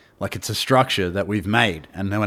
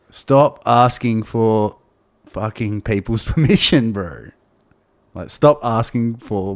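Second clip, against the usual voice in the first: commanding inner voice; 6 dB louder, slower than usual. Retold or imitated. Inner voice lectures him, retold.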